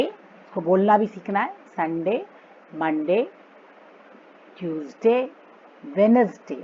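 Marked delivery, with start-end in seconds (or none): 5.8-6.5 said without the D, as WENS-day; वेडनेसडे with the D silent. Shown as a demonstration. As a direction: leave out the first D in वेडनेसडे. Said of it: "डी silent है इसमें".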